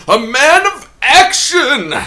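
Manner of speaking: booming slow trailer announcer. Pretend. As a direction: belt it like a movie trailer. Hamming the movie tagline.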